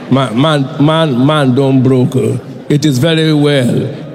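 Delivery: low, slow mock grumble between friends; mock complaining churchgoer. Broke churchgoer to his friend after service, low mock lament. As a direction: play a churchgoer privately admitting hardship, low and slow.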